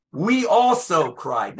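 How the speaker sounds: slow line leaning on "also"; stress on also. Shown as a demonstration. Rabbi shows congregation a verse's emphasis, stress on "also". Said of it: "hear the emphasis on a different syllable".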